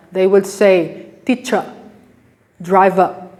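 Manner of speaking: teacher and driver with no R, ending in uh; British non-rhotic. Shown as a demonstration. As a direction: drop the R like British English. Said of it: "British English, wouldn't pronounce letter R".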